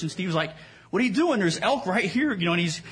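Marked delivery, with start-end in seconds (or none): 0.9-2.3 mock panic. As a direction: imitate a hunting buddy losing it. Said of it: "he's panicking".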